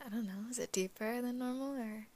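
raspy just-woke-up voice; slightly hoarse morning voice. Real, not acted. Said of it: "my morning voice".

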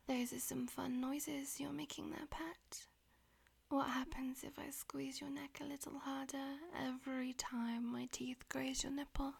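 whispering. Acted. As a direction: whisper it close to the ear. Whispered throughout.

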